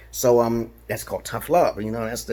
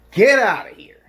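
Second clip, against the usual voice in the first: sudden high whispered get out; 8 semitones higher, 5 dB louder than usual. Pretend. To people who can't think outside the box, a high whisper. Mock dismissal of closed minds.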